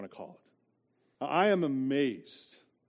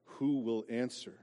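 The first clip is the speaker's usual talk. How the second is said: slow, solemn reading of psalm; scripture reading. Acted. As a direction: read the verses gravely.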